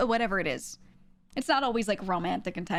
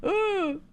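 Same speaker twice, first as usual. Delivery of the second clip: high, loud squirming ooh; cringing "ooh"; 11 semitones higher, 5 dB louder than usual. Real, not acted. Streamer squirming over suggestive thumbnails, cringing. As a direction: recoil with a sharp high ooh.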